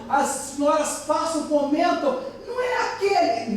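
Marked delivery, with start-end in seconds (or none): 2.5-3.6 high-pitched voicing of gossiping ladies; gossiping women. Ladies passing by point out Peter, gossiping voice. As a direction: ask it high, like a nosy onlooker.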